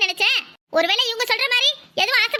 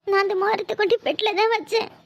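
tearful pleading. Acted. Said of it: "அழுதுட்டு நிக்கிறீங்க?".

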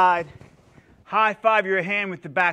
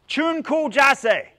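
slow, raised, evenly spaced syllables; slow term announcement; 7 semitones higher, much slower than usual. Shown as a demonstration. Instructor naming the front stance for students, slow and raised. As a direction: present the term slowly and clearly. Teacher introduces a Korean stance name.

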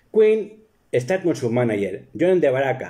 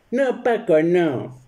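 much higher wife voice; wife objecting; 6 semitones higher, slower than usual. Retold or imitated. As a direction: play the wife cutting him off. (esposa aguda que protesta)

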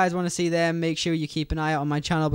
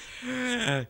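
deep relieved sigh; 7 semitones higher, 4 dB quieter than usual. Real, not acted. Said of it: "Take a deep breath 'cause I nearly choked".

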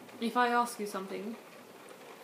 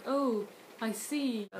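slow "oh, I see"; acknowledging news; slower than usual. Shown as a demonstration. Teacher translating aha, slow dawning acknowledgement. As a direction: draw out the realisation. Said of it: "this means, like".

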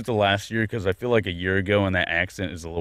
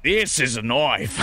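put-on slow Australian accent; slower than usual. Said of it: "Sounds like Junkrat".

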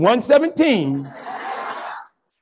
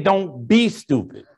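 mama's warning; 5 semitones lower, 4 dB quieter, slower than usual. Retold or imitated. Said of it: "She said".

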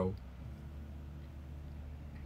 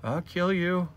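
menacing tiny tyrant threat; cat villain voice; 8 semitones higher, slower than usual. Pretend. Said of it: "She's like".

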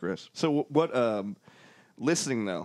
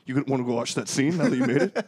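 excited dad; 3 semitones higher, 4 dB louder than usual. Retold or imitated. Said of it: "My dad was like".

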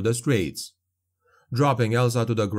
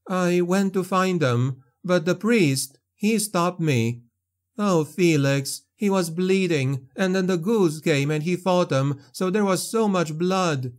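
put-on higher young woman on the edge of tears; young woman, tearful; 7 semitones higher than usual. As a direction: voice Elsa, shaken and grieving. Elsa continues, distraught.

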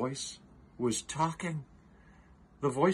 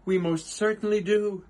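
high, louder chirpy reply; piped; 7 semitones higher, 5 dB louder than usual. Acted. Who mayor answering Horton, high piping reply. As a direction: pipe it up brightly. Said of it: "piped the voice".

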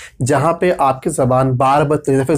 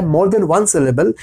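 slow heading; much slower than usual. Shown as a demonstration. Repeating the lesson heading.

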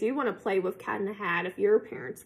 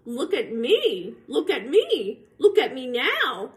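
show-off cat; 2 semitones higher, 4 dB louder than usual. Acted. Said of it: "said the cat".

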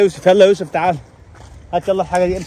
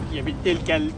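deep gruff man voice; 11 semitones lower, 9 dB quieter than usual. Acted. The male character curses.

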